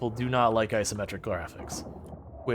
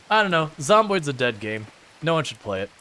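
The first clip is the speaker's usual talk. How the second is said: deadpan sarcastic claim. Pretend. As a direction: say it with obvious sarcasm. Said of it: "Obviously, I'm being sarcastic".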